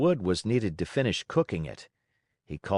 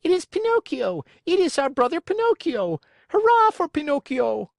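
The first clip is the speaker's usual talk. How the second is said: high, loud joyful cheering; 6 dB louder than usual. A narrator's reading. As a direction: shout hurrah in triumph. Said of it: "yelled all the marionettes".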